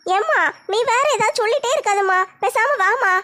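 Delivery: lightly voiced teenage daughter; a hint of a shy college girl talking to her mother; young daughter. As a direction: modest daughter, lightly played. Daughter, embarrassed.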